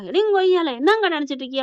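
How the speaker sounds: mild mock outburst, starting high; retold angry yell. Natesan protesting the called-off engagement, mild retold yell. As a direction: snap into an indignant retort, half-strength. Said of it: "Natesan கத்த".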